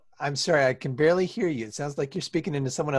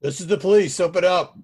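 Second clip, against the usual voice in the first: police officer; 5 dB louder than usual. Acted. Police arrive at the door.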